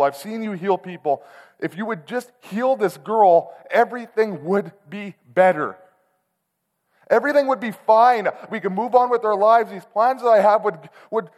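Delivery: high, loud, desperate cry to God; a believer shouting his frustration at God; yelling at God. Retold or imitated. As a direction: pour it out as a pleading yell. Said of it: "started to yell out to God".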